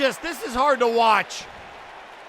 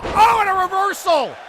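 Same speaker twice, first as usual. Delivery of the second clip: sudden loud, higher outburst; surprised match call; 6 semitones higher, 6 dB louder than usual. Real, not acted. Commentator spots a reversal in the match, surprised shout. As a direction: jump on the sudden turn in the fight.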